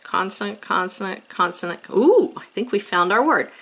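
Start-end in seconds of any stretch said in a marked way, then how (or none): 0.0-1.8 each "consonant" tapped out as a count. Shown as a demonstration. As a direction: point to each letter, "consonant, consonant, consonant". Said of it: "B L consonant".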